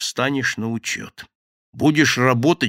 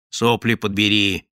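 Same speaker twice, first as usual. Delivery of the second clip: contemptuous snap; 2 semitones lower, 4 dB louder than usual. Acted. Boss snaps at sobbing thief.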